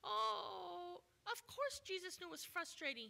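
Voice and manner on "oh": higher, syrupy pity; mock sympathy. Preacher mocking a touchy-feely Jesus, higher. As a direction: gush with exaggerated pity. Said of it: "He didn't say anything".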